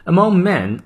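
"Among men", "men" with a small mouth shape; careful model reading. Shown as a demonstration. Teacher repeating the phrase as a model. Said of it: "注意M E N复数，嘴型小一些".

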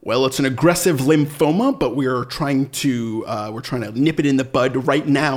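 House's over-enunciated American accent, lightly hammed; overcorrected American accent. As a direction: work too hard at sounding American. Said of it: "it works for House".

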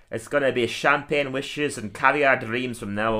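slow, drawn-out mild Scottish brogue; slow Scottish dreamer, lightly voiced. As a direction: savour it in a Scottish accent. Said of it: "Today I'm gonna do Groundskeeper Willie".

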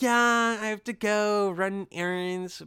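high, drawn-out mock white woman; white woman client. Spa client listing her busy day, mock white woman. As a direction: stretch it out high like an idle spa lady. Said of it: "it's white women".

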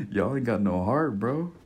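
real passionate, dropping the proper talk; voice changing with passion. Real, not acted. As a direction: let heated conviction creep into the voice. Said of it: "You see how my voice changed".

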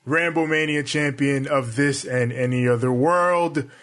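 wrestler promo. Acted. Wrestler villain self-intro.

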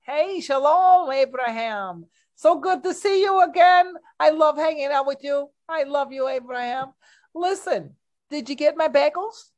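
put-on high, lightly Yiddish-accented Jewish wife. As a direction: play a fussy Jewish wife with a Yiddish lilt. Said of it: "Let's look at Esther".

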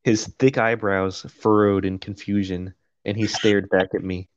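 measured, even audiobook read; steady first-person narration; story narration. A narrator's reading. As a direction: read it out like a novel. Reads the novel aloud.

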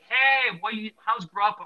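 a hint of the eager friendly guy; friendly stranger. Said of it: "he's like".

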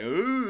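goofy mock straining noise; strained mock "ooh". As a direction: mimic a power-absorbing grunt, hammed up. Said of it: "doing all the weird faces".

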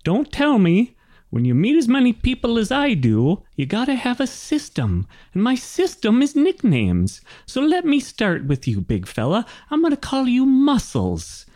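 high-pitched, bossy little wagon master; chatty old gnome. Acted. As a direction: rattle on as a high-voiced oblivious gnome. Gnome wagon master hands out nicknames.

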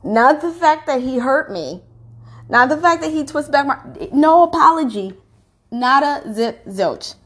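real hurt anger rising; indignant. Real, not acted. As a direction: hammer each point of the grievance. Angry listing of his failures.

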